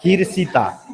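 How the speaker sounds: हिरसिता with a स sound in place of the ष; mock a wrong हिरसिता; mispronounced name. Shown as a demonstration. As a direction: deliberately garble हर्षिता into हिरसिता. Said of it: "हर्षिता को अगर मैं बोलूँगा".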